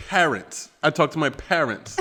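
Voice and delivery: "parents" pronounced carefully, a touch British; British-tinged accent. Shown as a demonstration. Defending how they say parents, British-tinged accent. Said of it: "Now I'm talking like I'm British".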